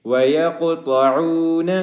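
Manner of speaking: وَيَقْطَعُونَ with a bouncing, heavy ق; heavy ق with a small bounce; qalqala on qaf. Shown as a demonstration. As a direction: echo the ق in وَيَقْطَعُونَ. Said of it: "قلقلہ کریں گے اور قاف کو موٹا".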